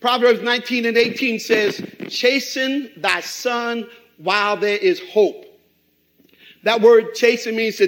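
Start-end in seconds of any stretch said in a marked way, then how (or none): 2.1-5.5 slow, solemn scripture read. Acted. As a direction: intone the verse. Scripture reading.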